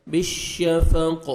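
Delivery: "بالشفق" slow, its final qaf bounced; qalqala echo. Shown as a demonstration. Teacher shows the double sound, final qaf of "بالشفق" echoed. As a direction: end "بالشفق" on an echoing q. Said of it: "جب ساکن ہوئے گا تو double sound آئے گا".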